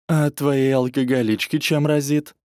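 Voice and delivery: a catty jab thrown back; snide. Acted. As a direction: needle him with a sneer. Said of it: "ехидно произнесла".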